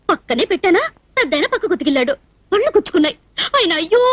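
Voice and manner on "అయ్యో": long comic howl of "ayyo"; imitated yelp "ayyo". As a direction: mimic the old man's pained cry. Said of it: "అంటూ వెళ్ళాడు".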